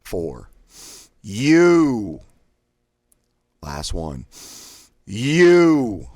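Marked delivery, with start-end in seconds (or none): 1.2-2.2 "U" shouted high and loud, all air out; sharp thrust of U. Shown as a demonstration. Diaphragm exercise, coach blasting out U sharply. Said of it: "thrust out quickly and sharply". 5.0-6.1 "U" shouted high and loud, all air out; sharp thrust of U. Shown as a demonstration. Diaphragm exercise, coach blasting out U sharply. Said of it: "thrust out quickly and sharply".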